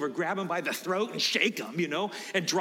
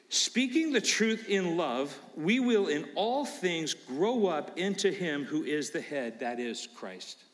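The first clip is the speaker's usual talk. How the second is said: scripture reading. Real, not acted. Reads scripture verse aloud.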